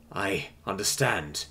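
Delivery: soft, slow, hushed plea; pleading. A narrator's reading. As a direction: beg quietly to be sent home. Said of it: "the human pleaded".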